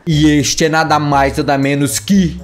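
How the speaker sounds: dramatic announcer. Acted. Gamer hypes the new dinosaur to viewers as announcer. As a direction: announce it like a big reveal.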